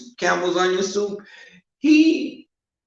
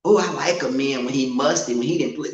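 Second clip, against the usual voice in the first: imitating a queen; 2 semitones lower than usual. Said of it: "some queens I know say this".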